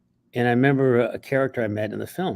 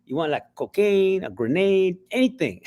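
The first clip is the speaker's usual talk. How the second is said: gangster voice; 6 semitones higher than usual. Retold or imitated. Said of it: "He's like".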